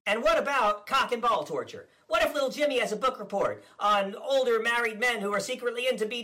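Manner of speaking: blustering politician impression, smug and combative; Ron DeSantis parody. Comedian as DeSantis ranting at the press, blustering. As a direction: play the governor as a cocky blowhard.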